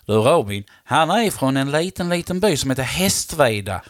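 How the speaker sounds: lightly imitated Scanian accent; retold reply in Scanian; Scanian dialect. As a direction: answer like a man from Skåne. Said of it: "Skånsk, det, det är så tufft. Du är väldigt god på det".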